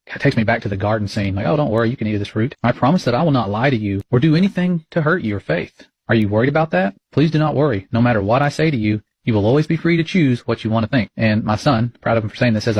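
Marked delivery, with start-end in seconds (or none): 1.5-11.1 lightly voiced tempter coaxing a child; mock sweet-talking tempter. Mimics tempter in garden scene.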